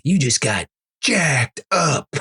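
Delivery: a hammed-up NFL Prime Time commentator; sportscaster impression. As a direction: call the big hit like a TV analyst. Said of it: "with Boomer and Tom Jackson".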